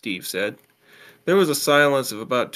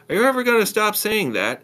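put-on high-pitched girlfriend on the phone; lifted, teasing female character voice; girlfriend's voice; 10 semitones higher, 4 dB louder than usual. A narrator's reading. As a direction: pitch it up for the girl's line.

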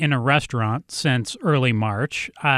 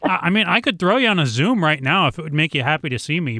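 chewing while talking; 3 semitones higher than usual. Real, not acted. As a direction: mouth full, chewing between words. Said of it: "I'm gonna talk while chewing".

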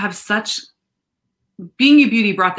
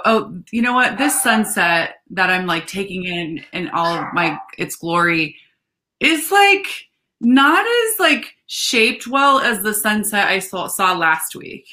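lightly voiced picky complainer; a hint of a fussy judge; mock snooty critic. Mock quote of picky viewer.

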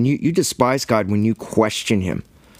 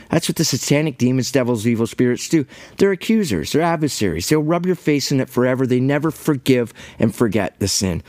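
raised, driving sermon voice; fervent preaching; 2 semitones higher than usual. Acted. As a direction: preach it hard against the accusers. Preaching at full force.

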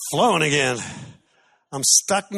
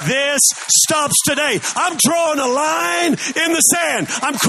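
preaching shout; 5 semitones higher than usual. Pretend. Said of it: "and saying".

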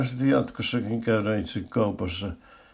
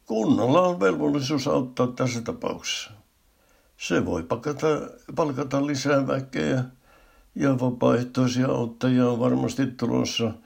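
eager; 6 semitones higher than usual. Acted. Policeman's sudden bright idea.

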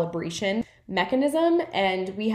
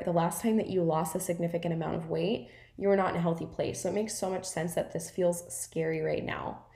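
gentle self-talk. Shown as a demonstration. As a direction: speak to yourself like a kind friend. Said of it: "that's what healthy self-dialogue sounds like".

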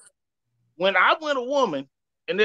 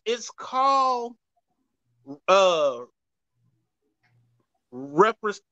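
breathless, halting, gasping between words; winded mid-sentence, words broken up; out of breath; much slower than usual. Real, not acted. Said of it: "sorry, I'm out of breath".

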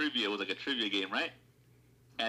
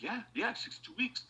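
mock confident friend; 10 semitones higher, 4 dB quieter than usual. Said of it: "he was just like".

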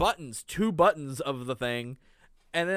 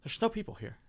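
lightly voiced, higher airhead, softer; mock airhead realization; 6 semitones higher, 6 dB quieter, faster than usual. Host imitates the unconcerned girl, light airhead voice. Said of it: "and then she's like".

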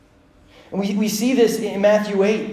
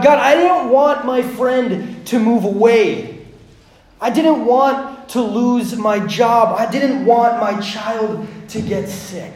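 loud, drawn-out protest in prayer; crying out to God; 5 semitones higher, 5 dB louder, slower than usual. Acted. Believer complaining to God over losses, loud protest. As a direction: plead with raised voice, stretching the words.

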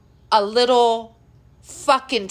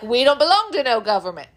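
imitating a rural militia man, fast; mock Southern accent; faster than usual. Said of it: "I don't know why I give them that accent".

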